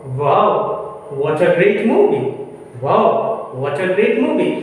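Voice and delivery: wow, what a great movie, said with delight; excited exclamation. Shown as a demonstration. Teacher shows a friend gushing about a movie, excited. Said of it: "यहाँ पे तो".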